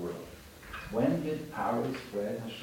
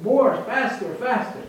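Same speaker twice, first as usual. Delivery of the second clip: very high, loud demand for more; gleeful donkey scream; 12 semitones higher, 10 dB louder, slower than usual. Acted. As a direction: shout for more like it's rescue. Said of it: "now he starts screaming".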